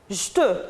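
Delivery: "Je te" said as one syllable, "j'te"; dropped E. Shown as a demonstration. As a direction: swallow the first E in "Je te". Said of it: "on ne dit pas je te".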